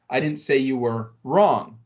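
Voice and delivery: WRONG stressed, falling at the end; WRONG punched and dropped. Shown as a demonstration. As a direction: land hard on WRONG. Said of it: "underline each of these words".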